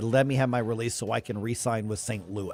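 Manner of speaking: ordinary delivery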